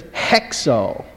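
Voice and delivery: hexo, opening on an h sound; rough breathing. Shown as a demonstration. Teacher gives the future form, hexo with rough breathing at the front. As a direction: say hexo with an h before the vowel. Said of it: "You've got a rough breathing".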